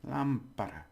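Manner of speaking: "lámpara" with a firm "lám"; stress on first syllable. Shown as a demonstration. Teacher pointing out where stress is, stress on first syllable. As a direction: hit "lám" in "lámpara", light ending. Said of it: "the stress is on there".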